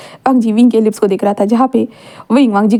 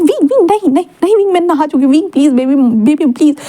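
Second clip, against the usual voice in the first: playful pleading; 4 semitones higher than usual. Acted. Sister begging not to be sprayed.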